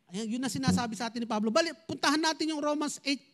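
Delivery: normal talking voice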